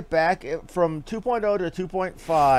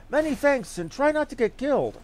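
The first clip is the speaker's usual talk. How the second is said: higher, lightly voiced parting thanks; cheery NPC farewell; 10 semitones higher than usual. Player voicing a grateful NPC to the adventurer, higher and bright. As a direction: send the hero off with a bright, friendly lilt.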